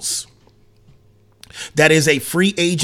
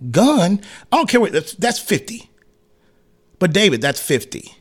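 mock Stern outrage; 3 semitones higher than usual. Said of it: "Stern been like".

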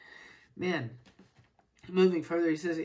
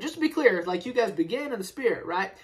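exaggerated; 5 semitones higher, 6 dB louder than usual. Real, not acted. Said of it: "emphatic aside".

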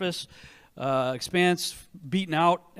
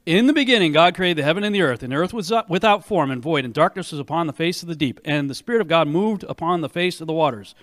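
booming biblical narration; 5 dB louder than usual. Shown as a demonstration. Reading Genesis aloud, booming.

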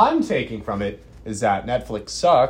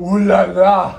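high, loud, put-on ooh la la; 8 semitones higher, 11 dB louder, slower than usual. Mock French exclamation.

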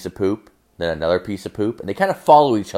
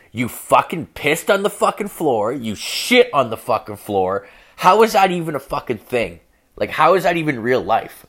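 mock scolding; 4 semitones higher than usual. Girlfriend scolds him over the mess.

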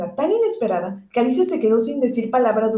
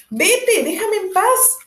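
angry; 10 semitones higher, much slower than usual. A narrator's reading. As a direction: snap at her to leave. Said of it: "dijo Alicia encolerizada".

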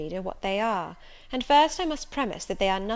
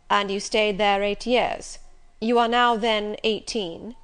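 Rochester, commanding; 6 dB louder, slower than usual. Acted. Rochester questions age.

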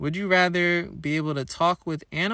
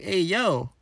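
hammed-up Italian accent with a swooping tune; Mario-style Italian accent; 3 semitones higher than usual. Shocked Italian man calling to a stranger, mock Italian accent. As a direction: call it out like a cartoon Italian. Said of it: "in, like, an Italian accent".

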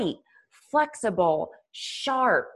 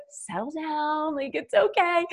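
tag; 8 semitones higher than usual. Retold or imitated. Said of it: "I'm like".

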